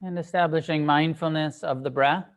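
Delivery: measured meditation guidance with long pauses; unhurried meditation teacher, phrase by phrase; guided meditation. Acted. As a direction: guide them gently into stillness, leaving space between phrases. Leads a sitting meditation.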